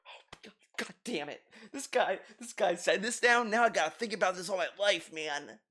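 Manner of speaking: soft, hammed-up dismay; mock distress. Streamer pretending a comment ruined his life, mock distress. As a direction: act quietly devastated by a comment.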